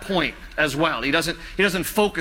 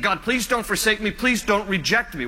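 retold plea, slightly raised pitch; pleading; 3 semitones higher than usual. Preacher voicing David begging God not to forsake him, pleading. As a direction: plead lightly as David would. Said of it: "And he's pleading".

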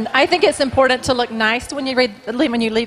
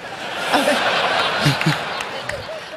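amused, mostly breathy laugh; 2 semitones higher, 3 dB quieter than usual. Real, not acted. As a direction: laugh helplessly without words. Woman laughs at the crowd's reaction.

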